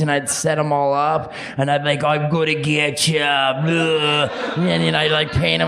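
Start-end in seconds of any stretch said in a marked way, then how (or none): 2.0-4.3 playful toy voice. Pretend. Playing with toy figures.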